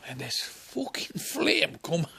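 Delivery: slow whispered awe. Real, not acted. Comic describing the flame in a slow whisper. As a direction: breathe it out slowly.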